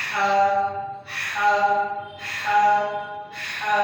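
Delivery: হা from mid throat with an airy rush; breathy mid-throat ha. Shown as a demonstration. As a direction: push air through the throat on হা. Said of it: "মধ্যখান থেকে শ শ শব্দ করে". (কণ্ঠনালীর মধ্য থেকে হা)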